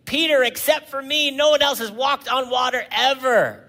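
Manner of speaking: mock praise. Mock Jesus congratulating Peter.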